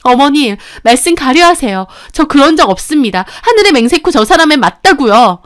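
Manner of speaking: wife shouting back her innocence at mother-in-law; indignant protest. Acted. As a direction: swear to it, hurt and furious.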